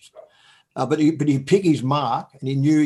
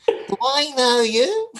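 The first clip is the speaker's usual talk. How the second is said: laughing question; 9 semitones higher, much slower than usual. Retold or imitated. Confused reply.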